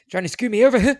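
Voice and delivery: laughing mock accusation. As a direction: tease through laughter.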